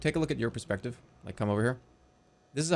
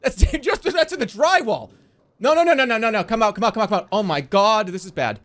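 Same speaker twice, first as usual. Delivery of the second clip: high, loud alarmed shouting; mock panic; 6 semitones higher, 5 dB louder than usual. Playmate spotting danger in the drywall, loud panicked urging. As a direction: frantically order them out of danger.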